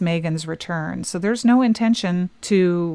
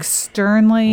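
stern, stoic; 3 semitones higher, 5 dB louder than usual. Shown as a demonstration. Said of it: "very stoically".

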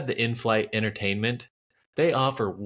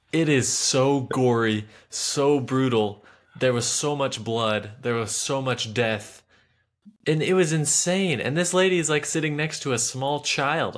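outraged; 4 semitones higher, 3 dB louder than usual. Real, not acted. Outraged rant about gory film.

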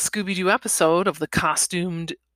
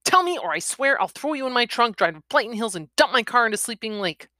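urgent, higher-pitched threat; heated threat; 5 semitones higher, faster than usual. Acted. Woman demanding truth from pinned man, heated threat. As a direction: threaten him with pitch raised.

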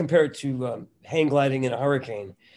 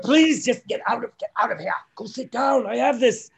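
Robin Williams; 8 semitones higher, 4 dB louder than usual. Retold or imitated. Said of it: "and it's like".

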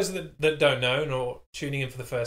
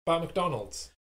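overly familiar; 3 dB louder than usual. Pretend. Faux-friendly setup for hated topic.

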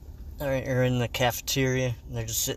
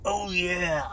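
lightly voiced mascot catchphrase, higher pitch; higher, drawn-out hollered catchphrase; wall-busting mascot; 5 semitones higher than usual. Host plays punch mascot busting through a wall, mascot voice. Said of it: "he busts through the wall".

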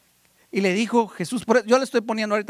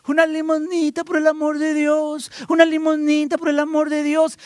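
lightly voiced beggar's plea; 5 semitones higher than usual. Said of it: "Bartimeo estaba".

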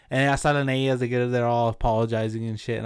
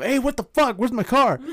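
much higher, louder, a mock shout; retold yell; 10 semitones higher, 4 dB louder than usual. Bursting into David's room, demanding his car, a high retold yell. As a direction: bark it like you just found the car gone.

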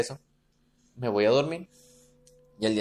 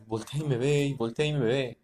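súplica llorosa fingida, repetida; llanto imitado. Retold or imitated. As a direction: imita a un niño que llora dormido. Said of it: "Y yo llorando". (lloriqueo actuado, dicho una y otra vez)

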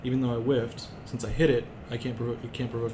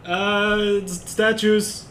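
put-on high, loud old man, slow and halting; a shaky old man stammering a warning; 9 semitones higher, 9 dB louder, much slower than usual. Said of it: "your old man impression again".

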